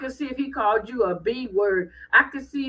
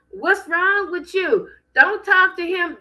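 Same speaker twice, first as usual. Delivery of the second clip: higher-pitched mock protest; indignant defence; 7 semitones higher, 3 dB louder than usual. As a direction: imitate a wife leaping to her man's defence. Acts wife defending her husband.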